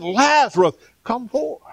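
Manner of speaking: Lazarus, come forth called out high and loud; loud call by name. Shown as a demonstration. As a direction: call Lazarus out of the grave with a shout. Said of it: "he said in a loud voice".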